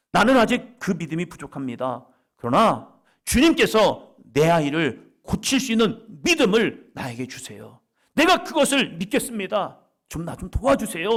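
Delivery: a desperate father praying aloud; loud pleading prayer. Acted. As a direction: beg God for your child.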